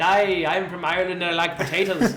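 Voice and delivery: jokey put-on Irish accent. Co-host playing an Irishman for laughs, in mock Irish accent. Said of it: "That's my Irish accent".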